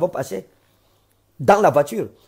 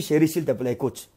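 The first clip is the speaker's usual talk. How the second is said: put-on soft, coaxing plea to a crying child; gentle pleading father; 3 semitones lower, 5 dB quieter than usual. Father softly begs his crying little girl to listen. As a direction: hush her tenderly, fading to almost nothing.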